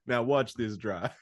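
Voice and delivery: lightly mimicked politician, drawn out; George Bush imitation. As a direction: slowly quote the famous offhand aside. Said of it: "George Bush is like".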